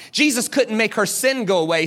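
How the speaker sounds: normal talking voice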